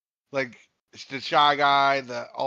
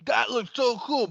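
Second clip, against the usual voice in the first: airhead poster; 9 semitones higher than usual. Retold or imitated. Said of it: "just be like".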